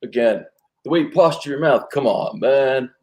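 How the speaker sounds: lightly voiced easygoing Brad Pitt; a hint of a cool heartthrob. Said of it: "give me a little Brad Pitt on the breakup".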